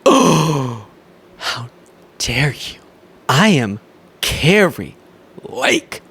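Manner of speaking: hammed-up indignant diva, breathy how dare you; mock Kari Lake. Host parodying Kari Lake to viewers, mock indignant. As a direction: play the offended grandee, overdone.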